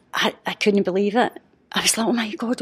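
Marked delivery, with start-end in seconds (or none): 2.1-2.6 breathless awed whisper; stunned whisper; whispered amazement. Retold or imitated. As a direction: gasp it out in wonder. Seeing her first shooting star.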